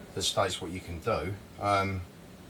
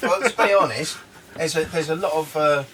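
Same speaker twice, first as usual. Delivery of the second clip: wind on mic; 6 semitones higher, 8 dB louder than usual. Real, not acted. Windy day outdoors, loud gusts.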